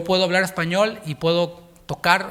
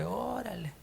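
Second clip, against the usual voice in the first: mock baffled reaction; 5 semitones higher, 12 dB quieter, slower than usual.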